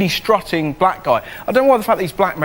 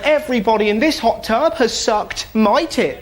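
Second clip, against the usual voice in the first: mock mum announcing; 5 semitones higher than usual. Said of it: "My mum looked up and went".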